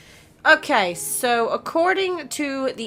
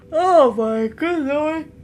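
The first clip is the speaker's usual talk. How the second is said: overwhelmed; 7 semitones higher, 4 dB louder, much slower than usual. Real, not acted. Swooning over the game scene.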